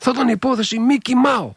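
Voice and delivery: high, sly grinning imitation; sly Mikis. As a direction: pitch up and tease it with a knowing grin. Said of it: "με το πονηρό χαμογελάει".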